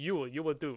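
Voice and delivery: strong put-on Russian accent, full effort. Acting out Russia choosing an animal, in a Ray Winstone-style Russian accent. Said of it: "in the best Ray Winston Russian accent".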